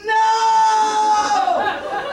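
sudden high, loud cry of horror; panicked shout. Retold or imitated. Retelling her shock at the bloody bed, a loud panicked cry. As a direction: yelp it in shock as you see the blood. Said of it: "And I'm just".

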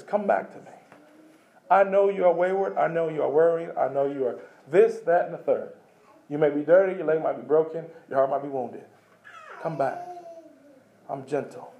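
soft, fading tender plea; God calling the wayward sheep back, tenderly; tender invitation. Pretend. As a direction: coax the lost sheep home gently.

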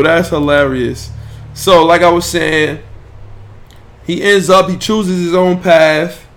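ordinary talk, nothing marked

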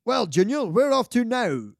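Sean Connery. Retold or imitated. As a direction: put on the film father's lilt, slowing at the end. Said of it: "Sean Connery goes".

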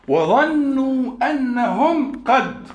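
وظنوا أنهم قد stretched out very slowly; very slow recitation. Shown as a demonstration. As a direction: draw out the verse to a halt at قد. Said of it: "قد ده تحقيق". (تلاوة بطيئة جدًا)

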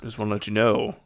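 lightly voiced old-time film star; mild movie idol impersonation making an announcement; a hint of a screen legend; Clark Gable. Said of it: "this is my Clark Gable".

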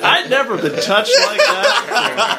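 high, slow, hammed-up erotic reading; mock Penthouse-letter reader. Lady confessing in a Penthouse letter, mock sultry. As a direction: overplay the swooning confession. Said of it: "Peter reading penthouse letters".

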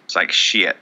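shaky impression of a Southern guy; lightly voiced Southern good old boy; Colby Rasmus. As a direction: play a sincere backwoods Southerner, loosely. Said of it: "I don't do very good impressions".

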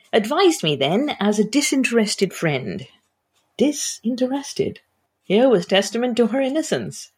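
reads the chapter aloud, voicing the characters lightly; an author reading her romance novel to listeners; measured reading voice with lightly voiced dialogue; story narration. A narrator's reading.

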